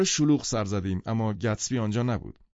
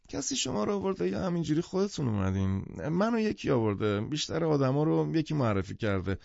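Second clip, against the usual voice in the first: lightly voiced tipsy man, higher pitched; a hint of nosy tipsy chattiness; half-drunk man; 5 semitones higher than usual. Half-drunk man questions his visitors, lightly tipsy.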